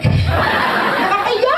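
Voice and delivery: high, drawn-out laughing cry; laughing exclaim. Real, not acted. Speaker laughs at his own story, stretched and high.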